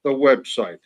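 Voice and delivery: host calling out to the back of the room. Shown as a demonstration. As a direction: call it out to the back row. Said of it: "for those of you way in the back".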